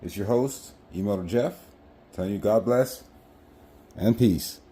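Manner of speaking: muffled, speaking through a helmet; talking inside a full-face helmet. Real, not acted. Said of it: "Sorry for the wind noise".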